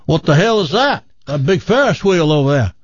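lightly voiced loudmouth Texan; bragging Texan. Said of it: "his Texas buddy goes".

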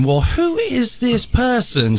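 high, slow, puzzled question; mock bewilderment. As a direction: wonder aloud in exaggerated disbelief. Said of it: "They were wondering".

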